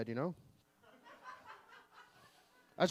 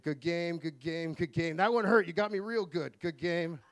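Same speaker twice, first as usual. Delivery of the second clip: post-game handshakes; 4 dB louder, slower than usual. Pretend. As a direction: work down the lineup, player to player. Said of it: "they line up like a hockey lineup".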